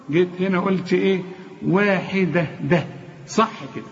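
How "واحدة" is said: واحدة slowly, with a thin, light د; light dal. Shown as a demonstration. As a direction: keep the د of واحدة unthickened. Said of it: "مرققة،".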